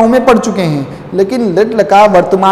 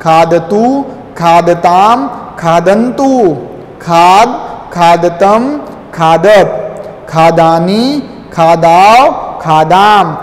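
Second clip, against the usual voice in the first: recitation drill; 3 semitones lower, slower than usual. Shown as a demonstration. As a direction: slightly lower sing-song chant, each form rising. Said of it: "एक बार फिर से".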